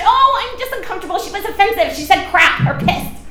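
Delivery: fast, high mock complaining with a laugh; laughing mock whine of an offended churchgoer; whiny churchgoer. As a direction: make fun of a touchy churchgoer. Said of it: "too much of the church".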